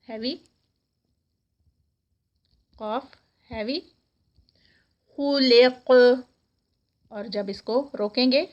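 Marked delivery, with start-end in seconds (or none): 5.2-5.9 خلق stopped with the ق bouncing in a qalqala; qalqala demo. Shown as a demonstration. Teacher demonstrating qalqala on خلق for students. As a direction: let the qaf of خلق echo as you stop. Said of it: "تو قاف کا قلقلہ".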